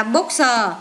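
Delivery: "bookser" with a separate "sờ" on the end; added s sounded. Shown as a demonstration. Teacher showing pupils plural endings, s sounded out. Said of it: "thêm sờ vô đọc là".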